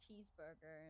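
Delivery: retold "cheeseburger" in a put-on American accent; imitated American accent. Retelling what was said to taxi driver, American accent. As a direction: lightly mimic an American saying it. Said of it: "in an American accent".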